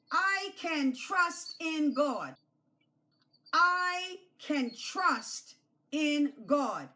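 slow, deliberate sentence to repeat; slow model line. Shown as a demonstration. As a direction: spell it out slowly for the children. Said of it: "I want you to say that".

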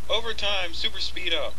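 excited shout. Pretend. Echoing the overtime shout.

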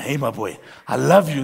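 terrifying ogre. Acted. Huge grandad leans in on baby grandson, ogre voice. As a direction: say the affection in a big ogre voice. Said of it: "it's this terrifying ogre".

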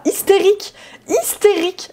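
high, sharp cry of Hystérique; shrieking Hystérique twice; excited shriek. Real, not acted. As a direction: squeal the word out in disbelief. Sim goes wild, she exclaims.

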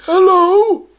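high sing-song troll voice calling out; a suspicious little troll; troll guardian. Acted.

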